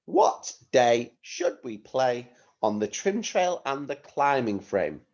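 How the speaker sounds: measured phrases to be repeated; teacher dictation, phrase by phrase; deliberate model reading. Shown as a demonstration. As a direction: say it clearly for pupils to echo. Teacher modelling sentence for repetition.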